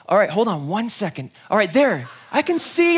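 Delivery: rising, excited over the noise; pausing mid-miracle, swept up; busy healer. Acted. Jesus busy healing, tells disciples to wait, excited.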